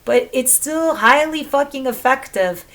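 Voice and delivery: normal talking voice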